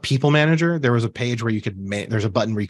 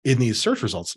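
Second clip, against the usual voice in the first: talking through hiccups; words broken by hiccups. Real, not acted. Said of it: "Sorry, I have the hiccups".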